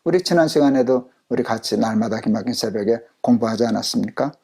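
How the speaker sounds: ordinary delivery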